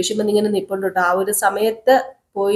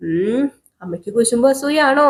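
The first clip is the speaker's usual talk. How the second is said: lightly voiced little girl; 5 semitones higher than usual. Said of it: "എന്നൊക്കെ ഇങ്ങനെ ഗൗരിമോള് ചോദിക്കുക".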